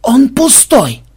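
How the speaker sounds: high, loud, drawn-out shout; yelling. A narrator's reading. Programmer reports on the chest from the tree, yelling. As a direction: call it down slowly and loudly. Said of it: "он завопил".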